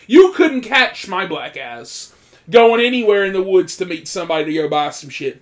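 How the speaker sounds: heated loud boast; loud emphatic. Real, not acted. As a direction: swear you'd never go there. Refusing risky situations emphatically.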